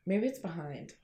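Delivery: high and giggly, slow then whispered; stoned. Real, not acted. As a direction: giggle it out slowly while stoned. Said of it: "I am so high right now".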